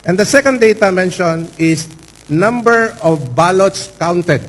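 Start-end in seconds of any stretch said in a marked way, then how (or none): 2.3-4.4 slow, deliberate "ballots" with each word spaced out; slowed, lawyerly weight on "ballots"; stress on ballots. Shown as a demonstration. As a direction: drag out "number of ballots counted" to press on "ballots". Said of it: "I again emphasize the word ballot".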